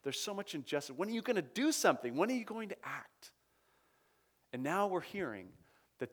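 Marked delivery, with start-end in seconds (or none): 0.0-3.3 pleading cry to God. Retold or imitated. Martyrs crying out to God, pleading and rising. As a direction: beg God to finally act. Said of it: "they're crying out".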